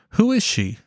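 high, sharp suspicious question; suspicious husband. Acted. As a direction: demand to know who she is. Husband questions wife in argument.

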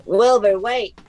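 calling his name loudly after him; loud call after a departing friend. Acted. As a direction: call out to stop him leaving.

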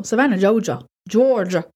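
mock Southern accent on the place names. Narrator playing with the town's name, put-on Southern accent. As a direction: say it like a hammed-up Southerner. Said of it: "I do a great Southern accent".

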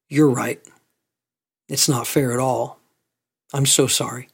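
low, quiet sympathy, with room between phrases; understated, tender agreement; gentle condolence. Retold or imitated. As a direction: console someone grieving, softly and simply. Consoling a crying widow at funeral.

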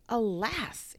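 breathy, fading last gasp of a word; dying whisper. A narrator's reading. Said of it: "it cried as it died".

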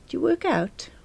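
breathless whispered do you work out; whispered question. A narrator's reading. Narrator whispering her flirt to the window cleaner. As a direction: whisper it, half hoping he won't notice. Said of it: "I asked".

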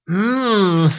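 loud, high "mmm" of exasperation; mock growl of frustration; frustrated growl. Exasperated at device in retold story.

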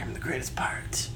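breathy, near-whispered pirate slur; a weak stab at Jack Sparrow; bad Jack Sparrow. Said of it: "That's a bad Jack Sparrow accent".

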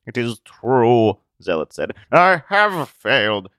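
high, loud, anguished recluse; despairing hermit voice. Acted. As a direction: plead it, lost and afraid. Zealot's voice.

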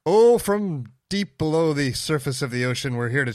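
high, loud mock-dramatic trailer narration; movie trailer voice. Cohost teasing the submarine theme, mock trailer boom. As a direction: boom it out like a cheesy film trailer.

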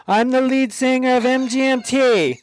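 high, proud stage boast; mock rock-star boast. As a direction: announce it like a star. Boasting into the microphone.

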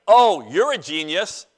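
mock praise with a punched "Oh"; sarcastic. Shown as a demonstration. Preacher showing you don't mean it, sarcastically. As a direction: praise them and plainly mean the opposite. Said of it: "Like sarcasm".

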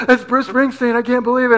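breathless starstruck disbelief, played small; mock hyperventilating fan. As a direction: gush as if overwhelmed inside.

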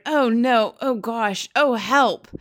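put-on a child horrified by the taste; disgusted girl. Sophie tasting the snozcumber.

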